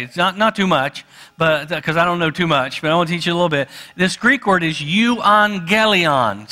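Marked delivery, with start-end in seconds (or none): 3.9-6.5 euangelion said slowly, syllable by syllable, for the congregation to repeat; slow teaching pronunciation. Shown as a demonstration. Preacher teaching the congregation a Greek word, slow and clear. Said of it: "Say that with me".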